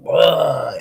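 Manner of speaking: sputtering noise of a nose blowing out; imitated nose-blow. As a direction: mimic a messy nose-blow.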